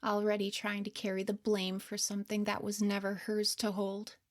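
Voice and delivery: hushed, gentle third-person commentary, half whispered; soft narrator aside. A narrator's reading. Narrator looking back on her younger self, soft and hushed. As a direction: speak softly over the scene like a caring observer.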